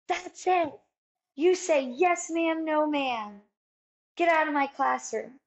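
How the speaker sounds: mildly acted stern teacher scolding; cross teacher. Teacher throws new girl out of class, mock cross. Teacher slams desk, orders her out.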